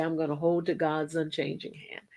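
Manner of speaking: soft whisper; hushed whisper; whispered vow. Pretend. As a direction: whisper it as a private promise. Quoting a private vow.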